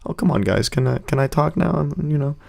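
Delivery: lightly imitated kid, trailing off softly; kid pleading. Kid presenting to noisy class, mildly timid pleading. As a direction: plead timidly to be allowed to talk. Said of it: "like a kid at show and tell".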